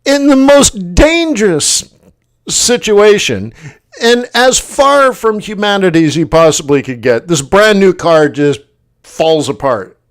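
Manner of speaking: high, slowed indignant disbelief; incredulous rant. Retold or imitated. Stranded in the rain, ranting high at the French car. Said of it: "And I'm like".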